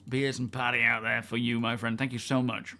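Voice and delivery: a faint whistle on each breath; whistling nose. Real, not acted. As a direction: air whistling through the nose. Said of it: "I don't know if you can hear my nose whistling there".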